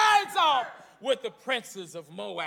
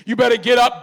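angry Balaam; 6 dB louder than usual. Retold or imitated. Angry Balaam scolds donkey.

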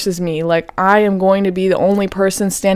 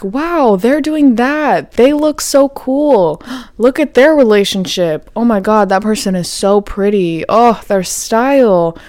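envious gushing; 3 semitones higher than usual. Retold or imitated. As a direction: gush over someone else's perfect life. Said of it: "We think".

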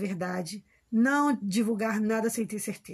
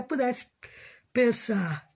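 yawning mid-sentence; much slower than usual. Real, not acted. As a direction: talk through a yawn. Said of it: "Desculpa que eu tô bocejando".

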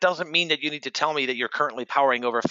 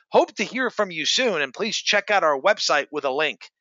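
mocking sales email; 2 semitones higher than usual. Host mocks a cold sales email's sign-off, mild sneer. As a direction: read their sign-off back with mild scorn. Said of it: "when they go".

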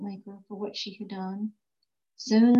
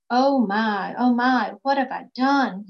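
a mild wail of regret, slightly louder; lightly wailed remorse, not overdone; 4 dB louder, slower than usual. Acted. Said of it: "he wailed".

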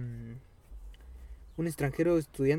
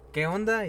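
"qué onda" lifted higher on ONDA; questioning intonation; 4 semitones higher than usual. Shown as a demonstration. Friend compares meanings by intonation, higher "qué onda". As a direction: raise the pitch on ONDA in "qué onda". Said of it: "la entonación".

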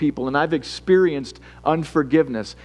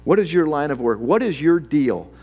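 mildly insistent questioning; interrogating. Acted. Sailors interrogate Jonah about the storm, insistent. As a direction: press him with one question after another. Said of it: "They kind of interrogate him here".

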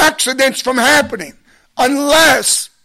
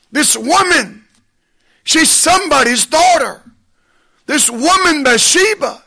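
higher-pitched, pleading warning to David; urgent warning voice; 4 semitones higher than usual. Acted. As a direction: warn him before he makes the mistake. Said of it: "the one says unto us".

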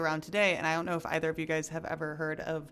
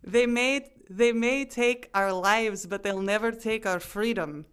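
put-on Scottish accent; 4 semitones higher, 4 dB louder than usual. Host repeats Braveheart quote on request, Scottish accent. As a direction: draw out the start in Scottish accent. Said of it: "Say it again".

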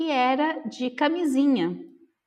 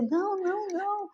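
flustered denial; 9 semitones higher, 4 dB quieter than usual. Retold or imitated. Waving finger, embarrassed denial.

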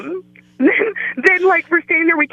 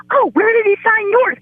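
mock neighbour question; 11 semitones higher than usual. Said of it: "everybody in our hallway is like".

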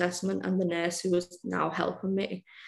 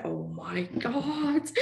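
retold scream; much slower than usual. Woman retelling her screams in the waiting room, mock wail. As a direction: draw it out like an imitated scream. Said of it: "and just screaming".

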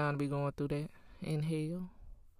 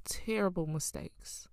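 whispered confession; 5 dB quieter than usual. Real, not acted. Confessing past mistakes.

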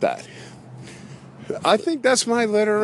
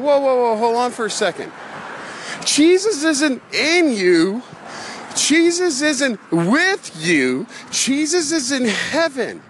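mock correction; 6 semitones higher than usual. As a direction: set her straight, deliberately. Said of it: "I'm going".

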